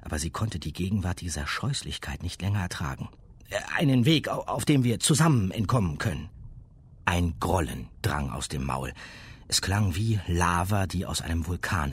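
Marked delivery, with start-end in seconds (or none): 0.0-6.3 put-on girl voice. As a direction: ask urgently as a girl. Girl asks.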